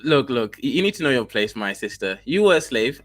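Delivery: fake African accent. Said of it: "that fake ass accent".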